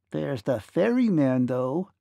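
tiny voice calling up, stretched out; little ferryman's piping-up call; tiny man's cry. A narrator's reading. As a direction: cry it out as a three-inch man. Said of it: "cried a tiny voice beside them".

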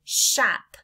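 loud "Shop" said clearly; the finished word "Shop" for the class; whole word. Shown as a demonstration. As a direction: say "Shop" crisply. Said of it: "What's our word".

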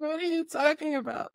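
high, mock-incredulous question; baffled. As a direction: question it as if it makes no sense. Retells baffled reaction to agent.

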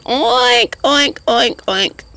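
pig oinks. Retold or imitated. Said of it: "You sound like a pig".

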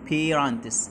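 "parents" with a long A as in the letter's name; A says its name. Shown as a demonstration. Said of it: "بنطق فيها ال A باسمه". (نطق حرف A باسمه في "parents")

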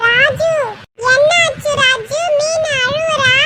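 put-on high, squeaky kid voice; high childish questioning; concerned child friend. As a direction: ask slowly in a small child's high voice. Child friend Pappu asks what happened.

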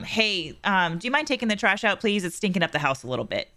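"do you mind taking the trash out, please?" asked gently and kindly; easy, considerate ask; polite request. Shown as a demonstration. Wife showing her husband the right tone for the trash, gently. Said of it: "your delivery is completely different".

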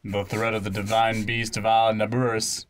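lightly voiced, measured young chief; a hint of a solemn child leader; young chief in earnest. Young chief confiding in visitors, lightly acted and earnest. Reads game character's speech.

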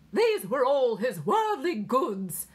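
high, slow, loud British recital; British accent. A narrator's reading. Nurse continuing her verse over the radio, British accent. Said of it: "the British voice continued".

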